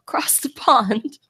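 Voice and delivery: slow, half-hearted put-on British accent; half-done accent. Co-host repeating it for her puzzled partner, slow half-done accent. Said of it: "supposed to be an accent".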